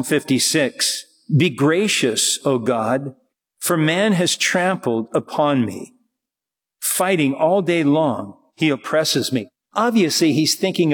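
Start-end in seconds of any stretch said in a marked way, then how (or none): 1.4-9.5 scripture reading. Real, not acted. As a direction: read the verse out solemnly, phrase by phrase. Reads the psalm aloud.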